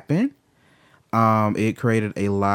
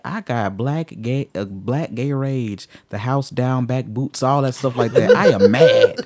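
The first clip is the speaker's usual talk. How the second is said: higher, building to a loud laughing squeal on "I am mad"; mock rage declaration; 4 semitones higher, 4 dB louder, slower than usual. Declaring his black gay rage to the hosts, rising into a laughing squeal. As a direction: hype yourself up, then burst into a laughing shriek. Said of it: "I'm like".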